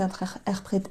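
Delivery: stumbling into a German-sounding "interpré-"; near German accent. Real, not acted. Tarot reader fumbling a word for viewers, accidental German-sounding accent. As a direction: trip over the r's in "interpré-", almost German-accented. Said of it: "J'ai failli vous faire l'accent allemand".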